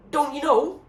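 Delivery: loud, high, panicky shout; panicked shout. A narrator's reading. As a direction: yell it in disbelief. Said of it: "he screamed".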